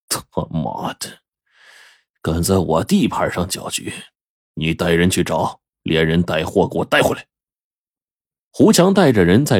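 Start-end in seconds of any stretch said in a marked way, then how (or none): 0.1-7.3 menacing boss swearing, then giving orders; gang boss Laowai. Acted. Boss Laowai sends his men after Zhang Jun, lightly menacing.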